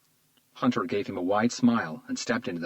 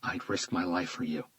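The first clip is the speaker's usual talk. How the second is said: whispered; 2 semitones lower, 5 dB quieter than usual. A narrator's reading. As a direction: breathe it quietly. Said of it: "he whispered back".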